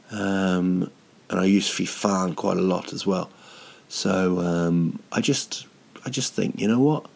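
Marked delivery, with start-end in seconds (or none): none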